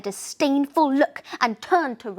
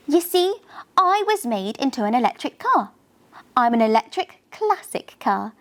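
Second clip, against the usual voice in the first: proud; 2 semitones higher than usual. Acted. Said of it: "she explained proudly".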